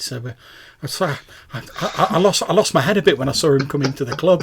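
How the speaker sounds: put-on high-pitched, stammering young woman; flustered young fan. Young fan explains herself to club owner, flustered and high.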